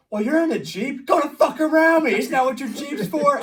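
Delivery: loud, high, furious shout; loud, high retort to a Jeep driver blocking the road; angry yell. Retold or imitated. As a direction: blow up at her. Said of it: "And I'm like".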